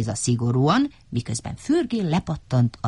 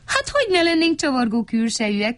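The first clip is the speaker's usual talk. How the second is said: smiling; 10 semitones higher, faster than usual. A narrator's reading.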